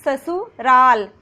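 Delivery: ससुराल drawn out slowly, each s crisp; slow dental s. Shown as a demonstration. Teacher modelling ससुराल slowly with clear s. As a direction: stretch ससुराल, hissing both s sounds. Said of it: "स का ही उच्चारण".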